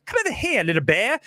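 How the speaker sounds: squeaky high leap on Come over here, then back down; the re-recorded take, jumping high at the start; the redubbed version with a high squeak; redone Doolittle voice. Shown as a demonstration. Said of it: "And now I'm gonna go".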